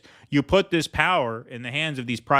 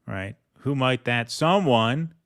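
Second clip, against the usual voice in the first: sly rhetorical tease; 3 semitones lower, 3 dB quieter than usual. Real, not acted. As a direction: drop it low and let the chat guess. Sly hint at who is meant.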